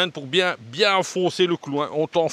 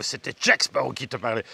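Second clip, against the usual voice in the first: Jack Sparrow; 3 semitones lower than usual. Retold or imitated. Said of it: "ils aimaient bien le Jack Sparrow".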